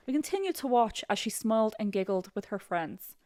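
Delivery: put-on amateur Irish accent; attempted Irish accent. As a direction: read it with a rough Irish lilt. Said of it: "Let me try an Irish accent".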